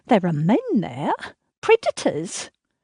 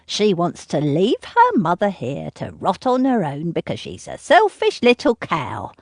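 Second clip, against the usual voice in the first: sneering mother; 2 semitones higher than usual. Acted. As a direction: sneer at her, then rant. Mother mocks and scolds daughter.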